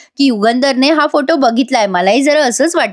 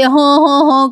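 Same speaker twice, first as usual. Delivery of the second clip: imitated weird wailing; 3 semitones higher, much slower than usual. Ramya wails oddly on hearing of the engagement, mock wailing. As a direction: hum out a strange fake sob. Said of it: "विचित्रच रडलीये बाबा ती".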